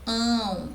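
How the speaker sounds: "ão" isolated, sounded through the nose; nasal diphthong. Shown as a demonstration. Teacher showing the nasalized A, isolated nasal "ão". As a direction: send "ão" out nasally on its own. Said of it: "O som da vogal A saiu pelo nariz".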